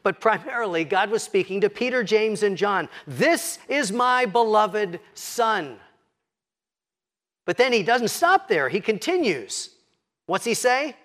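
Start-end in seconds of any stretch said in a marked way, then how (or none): 3.0-5.8 slow solemn proclamation. Acted. God speaks from the cloud.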